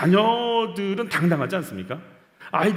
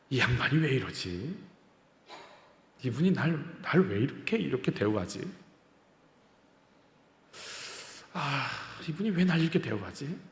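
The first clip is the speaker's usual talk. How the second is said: soft bewildered wondering; 3 semitones lower, 7 dB quieter than usual. Retold or imitated. Believer puzzled at God's kindness.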